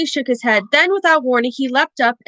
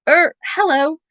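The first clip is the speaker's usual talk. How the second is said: nervous; 5 semitones higher than usual. Acted. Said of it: "said Harry nervously".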